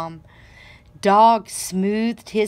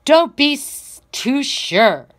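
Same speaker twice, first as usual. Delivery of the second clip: sharp, louder retort; barking back; 5 semitones higher, 5 dB louder than usual. A narrator's reading. Dog answering the bragging Peacock, barking back loudly. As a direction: snap it right back at him. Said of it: "Dog barked back".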